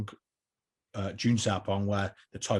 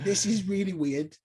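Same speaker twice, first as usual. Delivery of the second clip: slow mock-puzzled muttering; 8 semitones higher than usual. Changing trousers with Robbie right there.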